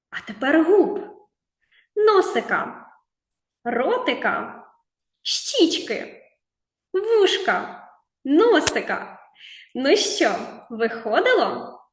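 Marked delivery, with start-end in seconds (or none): 0.1-9.2 quick excited calls. Shown as a demonstration. Quick touch game, teasing.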